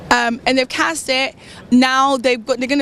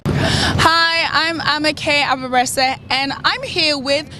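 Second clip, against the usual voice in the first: measured, deliberate TV link; presenter ident. Acted. Guest recording a Foresight TV ident, measured presenter delivery. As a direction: announce the show to camera, drawing out the names.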